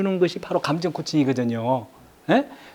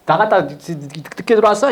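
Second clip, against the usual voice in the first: mock blaming yell. Shown as a demonstration. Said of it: "막 고함을 지르면서 비난해버리면".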